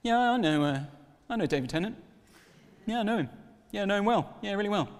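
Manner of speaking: boasting. Retold or imitated. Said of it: "I went around saying to people".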